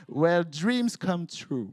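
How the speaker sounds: slow English slogan in a French accent; sotaque francês em inglês. Shown as a demonstration. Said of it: "vous m'excuserez mon accent".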